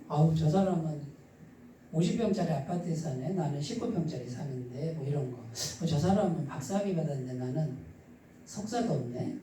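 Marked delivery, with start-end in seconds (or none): 0.1-4.9 low, softer voice of inferiority; mock envious self-talk. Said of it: "열등감, 비교의식이에요". 5.4-9.4 low, subdued envious self-talk; mock inferiority. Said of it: "열등감, 비교의식이에요".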